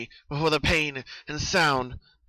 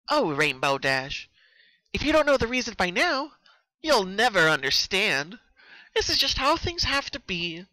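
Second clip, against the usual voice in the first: creepy mock tenderness; 8 semitones higher, 3 dB louder than usual. Captor leaning close to Rainbow Dash, creepy mock tenderness. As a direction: coo it like a twisted lover. Killer taunting her captive.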